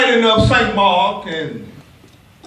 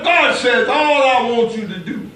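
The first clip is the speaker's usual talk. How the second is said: preaching at full force. Acted. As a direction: keep the fire up for the church.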